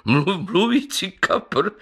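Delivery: high, stumbling words through laughter; mock him, breaking up at mluvící; laughing. Councillor mocking the talking carp, laughing. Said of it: "a rozesmál se znova".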